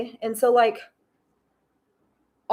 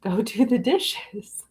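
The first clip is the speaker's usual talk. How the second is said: slow, drawn-out patient instruction; voice of God; slower than usual. Retold or imitated. God sending her back to the dishes, slow patient instruction. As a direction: spell it out slowly, as God to a stalling child. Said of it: "And God said".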